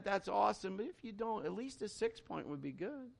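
lightly hammed-up prayer to God; mock prayer of a big man of faith. Pastor hams up his own bold prayer for a deer. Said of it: "So this is my prayer".

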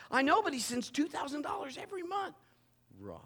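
high, near-shouting amazement; excited insistence. Acted. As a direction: insist it, bursting with the news. Wife insists, voiced in story.

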